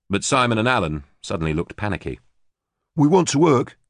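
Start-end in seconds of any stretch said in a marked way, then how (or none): 2.9-3.8 higher, louder, pleading insistence; insistent. A narrator's reading. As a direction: insist you mean it. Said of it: "Simon insisted".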